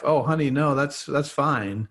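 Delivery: sweet-talking wife, endearing, unhurried. Retold or imitated. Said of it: "In an endearing way".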